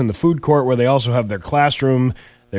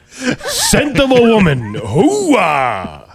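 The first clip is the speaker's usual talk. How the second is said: high slow cry then hooah; laughing hammy Pacino bark; Al Pacino impression; 9 semitones higher, much slower than usual. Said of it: "Al Pacino is doing the commercials".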